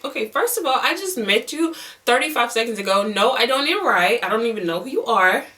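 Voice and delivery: animated, offended retort; indignant. Retold or imitated. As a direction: push back, incredulous at the offer. Indignant imagined reply to ride offer.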